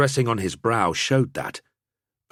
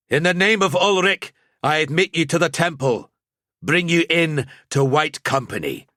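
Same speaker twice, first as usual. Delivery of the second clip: higher, louder solemn rite; sober priestly pronouncement; 9 semitones higher, 4 dB louder than usual. Acted. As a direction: intone it like a temple priest. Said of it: "Gantz pronounced soberly".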